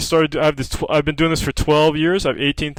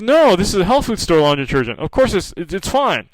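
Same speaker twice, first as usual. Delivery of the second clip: higher, fast, stubborn protest; insistent patient; 5 semitones higher than usual. Retold or imitated. Patient on the phone defending her detergent, higher and fast. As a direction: brush him off, quick and defiant.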